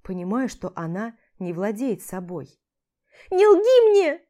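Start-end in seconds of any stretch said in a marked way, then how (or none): 3.3-4.2 громко и высоко, в ярости; кричать и топать ногами; гневный крик. A narrator's reading. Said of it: "Кричит и топает ногами". (Аля в истерике кричит на Олега)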